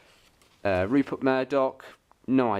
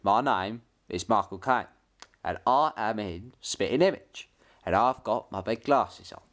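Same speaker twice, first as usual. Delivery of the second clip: Michael Caine. Acted. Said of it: "We've got Bob Hoskins and Michael Caine".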